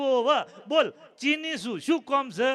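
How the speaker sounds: mock exasperated comeback, half laughing; fed-up retort. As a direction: snap back like you're sick of the question. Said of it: "પછી મેં કંટાળીને મેં કીધું". (કંટાળીને, હસતાં હસતાં હળવો જવાબ)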